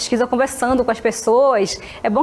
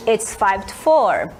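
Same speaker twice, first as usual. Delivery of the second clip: slow clear answer; 3 semitones lower, much slower than usual. Shown as a demonstration.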